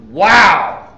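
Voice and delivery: loud, drawn-out wow of amazement; a big loud wow of wonder; awed wow. Retold or imitated. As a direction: gasp it out at the Grand Canyon. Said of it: "sit back and go".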